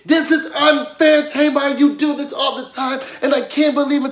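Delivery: hammed-up whiny complaint, not shouted; imitating an upset housemate whining at Tamar; mock yelling. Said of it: "Now she's yelling and screaming".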